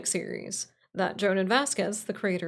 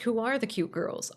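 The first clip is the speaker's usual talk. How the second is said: laughing; 2 semitones higher than usual. Pretend. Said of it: "And then you might ask".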